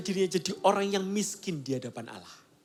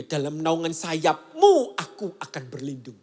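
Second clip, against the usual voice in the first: slow reading; 5 semitones lower, 4 dB louder, slower than usual. Shown as a demonstration. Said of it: "Dan yang berikutnya".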